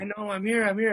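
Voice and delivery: lightly voiced celebrity owning it; Jericho's reply. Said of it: "he's like".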